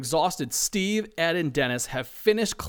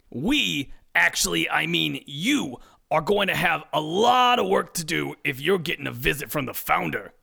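lecturing. Acted. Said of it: "lectures Debbie".

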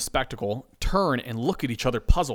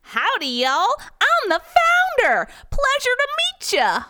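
much higher, louder friendly cowboy drawl; friendly cowboy accent; 6 dB louder than usual. Acted. The founder greeting the staff, cowboy accent. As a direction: greet them like a Texas cowboy. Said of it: "in his friendly cowboy accent".

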